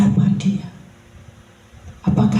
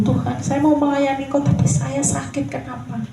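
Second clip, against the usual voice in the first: pleading prayer; 4 semitones higher, 5 dB quieter than usual. Retold or imitated. Retold prayer from sick bed.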